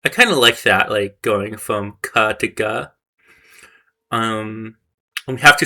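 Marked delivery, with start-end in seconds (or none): 2.0-2.9 "ka" then "ga", the k softened to a voiced g, said slowly; voicing demo. Shown as a demonstration. Learner softens "ka" into "ga" while reading the course, slow demo. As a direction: slide from "ka" to "ga", voicing the consonant. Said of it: "we can voice it".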